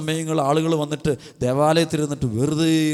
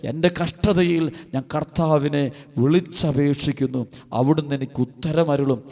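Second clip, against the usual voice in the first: slow verse reading; slower than usual. Acted. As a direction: let each word of the verse settle. Verse repeated slowly, lower. (വചനം സാവധാനം താഴ്ന്ന സ്വരത്തിൽ)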